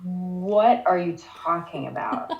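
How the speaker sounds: slow, drawn-out incredulous reaction; mock disbelief. Host reacting to Jen's cheesy speech, mock disbelief. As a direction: stretch it out in baffled mock dismay.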